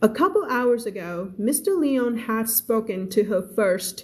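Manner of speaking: very slow, clear story reading; slow read-aloud. Shown as a demonstration. Teacher reading a novel aloud to her class, very slow. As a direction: read each word out slowly for learners.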